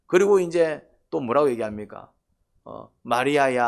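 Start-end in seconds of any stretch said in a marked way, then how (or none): 3.0-3.7 calling out. Acted. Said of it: "하고 이제 또 부릅니다".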